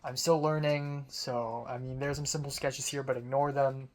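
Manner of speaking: flat deadpan delivery; monotone voice. Retold or imitated. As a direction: say it with no life at all. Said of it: "like, monotone voice".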